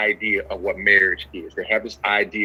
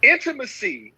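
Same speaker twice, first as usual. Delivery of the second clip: preaching; 8 semitones higher than usual. Acted. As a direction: preach it, letting each phrase land. Preaching a point with long pauses.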